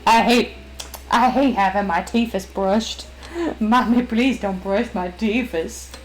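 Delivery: mild whiny dog voice, slowing on the plea; a lightly whining pup protesting toothbrushing; voicing the dog Rory. Dog voiced by owner, dreading the toothbrush, mild whine. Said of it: "that's just what Rory sounds like".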